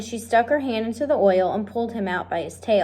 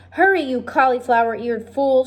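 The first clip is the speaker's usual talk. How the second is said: higher, impatient shouted insult; 4 semitones higher, 3 dB louder than usual. Acted. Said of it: "shouted Cook".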